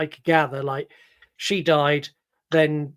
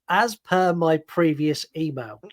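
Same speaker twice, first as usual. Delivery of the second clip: pointed email phrase; slower than usual. Retold or imitated. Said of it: "the guy that sends".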